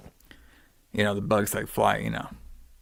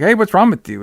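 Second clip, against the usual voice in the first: higher, mocking voice for the neighbour; mock concern; 8 semitones higher than usual. Neighbour asks the sick father, higher, mock concerned. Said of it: "He's like".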